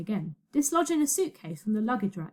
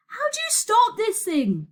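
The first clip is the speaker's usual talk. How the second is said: high, urgent raised voice; panicked yell; 12 semitones higher, 4 dB louder than usual. A narrator's reading. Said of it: "yelled Virgo".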